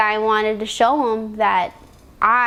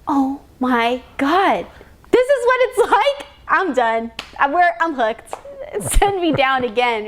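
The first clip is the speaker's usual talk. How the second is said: thrilled; 3 semitones higher than usual. Retold or imitated. Thrilled quote after first run.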